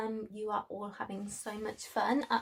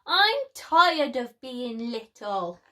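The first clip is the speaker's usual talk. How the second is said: grumbling; 6 dB louder than usual. Acted. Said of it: "Lizzie grumbled to Nana".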